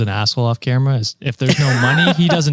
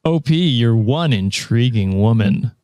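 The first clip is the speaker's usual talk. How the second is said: nasal smug neckbeard. Acted. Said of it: "Let him find his own neckbeard voice".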